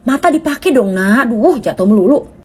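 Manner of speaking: put-on high-pitched scolding call at a child; scolding yell. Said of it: "nggak perlu diteriakin". (teriakan menegur anak dengan nada jauh lebih tinggi)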